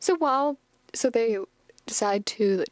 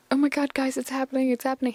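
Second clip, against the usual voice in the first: mild mock panic, pitched higher; freaking out; 4 semitones higher, faster than usual. Professor warning the guys it's happening, mock panicking. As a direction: act out a light, retold freak-out. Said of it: "He's freaking out".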